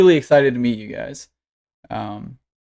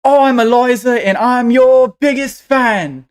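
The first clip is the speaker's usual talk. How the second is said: put-on high, loud, stretched-out child voice; excited little girl; 10 semitones higher, 6 dB louder than usual. Small girl meets her heroes, bursting with excitement. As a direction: gush like a young superfan. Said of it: "she's excited".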